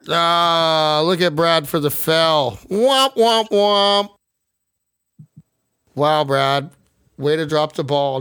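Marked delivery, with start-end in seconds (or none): 2.7-4.1 much higher, sung sad trombone womp; mock the friend who dropped out. Mocking Brad's dropped call.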